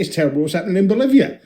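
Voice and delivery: flat, fast, can't-be-bothered; tossed off without caring; bored indifference. Pretend. A Bond fan shrugging it off, fast. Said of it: "I'd be like".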